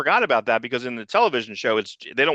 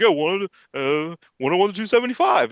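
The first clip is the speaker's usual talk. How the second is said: mock old Claremont; 5 semitones higher than usual. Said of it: "He's like".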